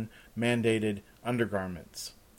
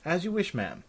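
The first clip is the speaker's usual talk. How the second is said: lightly voiced high servant; deferential servant; 7 semitones higher than usual. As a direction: yield politely, pitched up. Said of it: "the servant said with a bow".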